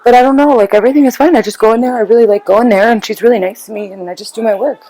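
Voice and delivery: lightly voiced child acting casual; nonchalant kid. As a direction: play it down like nothing happened. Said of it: "the kid acts nonchalant".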